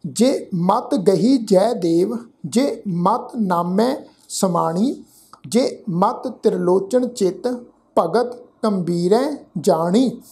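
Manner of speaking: slow, measured verse reading; scripture recitation. Shown as a demonstration. Teacher reciting Gurbani for the congregation, slow and measured. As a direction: recite word by word with held vowels.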